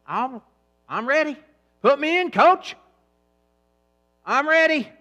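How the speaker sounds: loud high pleading voice of a benched player; eager player. Acted. Stored body fat begging the coach, loud eager plea. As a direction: beg the coach to be sent in.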